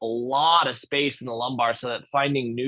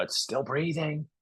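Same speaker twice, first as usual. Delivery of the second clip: hushed and soft, a little higher; whispered; 4 semitones higher, 6 dB quieter than usual. Acted. Scout rat hushing the news back into the cave, softly. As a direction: whisper it so the coyote can't hear. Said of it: "he whispers back into the cave".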